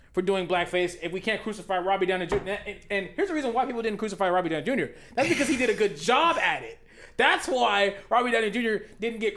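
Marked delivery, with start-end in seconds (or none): 2.7-6.8 chuckling through the words; laughing. Real, not acted. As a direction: laugh while making the point. Laughs through his point.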